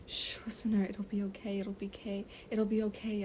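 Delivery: calming. Acted. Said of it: "I'm trying to calm her down".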